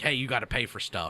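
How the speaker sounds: normal talking voice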